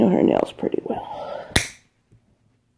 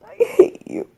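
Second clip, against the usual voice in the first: mock whisper; 5 dB quieter than usual. Repeats it breathlessly.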